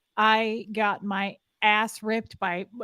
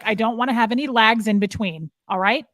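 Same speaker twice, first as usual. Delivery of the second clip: louder, clipped-down orders to an underling; harsh drill command; 5 dB louder than usual. Retold or imitated. Mother scolding the young party worker, loud commanding tone. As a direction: lay down the law to the girl. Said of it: "She was like".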